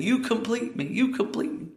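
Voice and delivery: high, soft mock-romantic plea; mock swooning. Mocking the silly commercial line, high and soft. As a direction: parody the gushing movie line softly.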